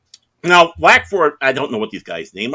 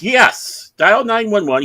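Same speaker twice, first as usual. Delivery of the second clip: loud, high exasperated cop; emphatic order; 10 semitones higher, 6 dB louder, slower than usual. Retold or imitated. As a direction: insist as if answering a stupid question. Cop's exasperated order, acted.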